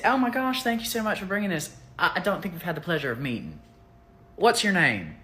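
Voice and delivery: put-on high, sugary Southern accent greeting a guest; mock Southern hostess. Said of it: "I'm putting on my Southern accent".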